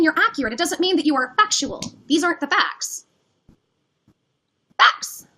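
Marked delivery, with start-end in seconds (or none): 4.8-5.3 breathy whisper, almost voiceless. Real, not acted. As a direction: hiss the word under your breath. Pressing him for the facts.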